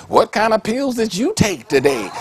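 high, loud mock astonishment; incredulous reaction. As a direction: blurt it out in hammed-up disbelief. Acts out astonished listener's reaction.

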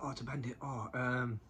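mock bully taunt; imitating Boxer. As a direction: mimic the bully sneering at Bandit. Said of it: "he's like".

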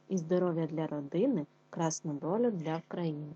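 poem reading. Acted. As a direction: read it out as a warm festive verse. Teacher reads poem aloud.

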